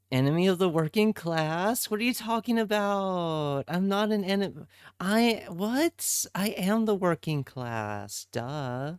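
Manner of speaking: high-pitched, incredulous protest; mock indignation. Real, not acted. Streamer answering accusation of being enemy of working class, indignant.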